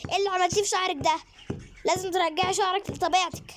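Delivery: mild mock scolding; scolding mom. (أم بتزعق لبنتها)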